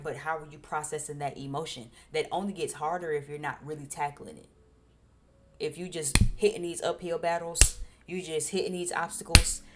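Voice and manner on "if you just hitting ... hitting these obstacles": building emphasis. Real, not acted.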